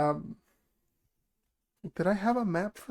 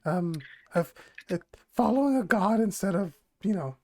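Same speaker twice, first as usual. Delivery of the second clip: lightly voiced goblin woman; hesitant goblin woman, feeling for words. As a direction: put on a modest goblin voice. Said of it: "I have to do the goblin voice".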